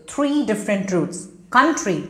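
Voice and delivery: "three" and "Country" each stressed; stress on key words. Shown as a demonstration. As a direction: pick out "Country" with clear emphasis. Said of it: "there's stress".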